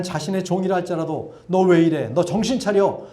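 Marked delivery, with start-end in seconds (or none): 1.5-3.1 a hint of a scolding master; mildly voiced rebuke, louder and higher; mock scolding. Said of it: "이렇게 야단치지 않으셨습니다". (야단치는 듯한 가벼운 꾸중)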